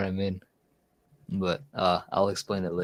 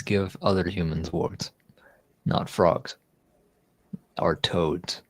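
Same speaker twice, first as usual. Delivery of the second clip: whisper; 3 semitones lower than usual. Real, not acted. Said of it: "whispered aside".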